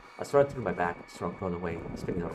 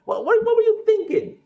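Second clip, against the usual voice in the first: sharp exasperated whisper; whispered scolding; 14 dB louder than usual. Acted. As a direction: hiss it at a reckless friend. Scolding a friend, game dialogue.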